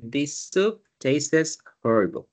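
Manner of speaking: This soup tastes horrible read slowly and clearly. Shown as a demonstration. Teacher reading the example sentence slowly. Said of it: "la oración nos dice".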